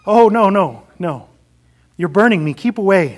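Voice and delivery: loud pained cry, pulling back; pained ghost. Acted. Ghost burned by the angel, crying out loudly. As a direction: shrink from the burning angel.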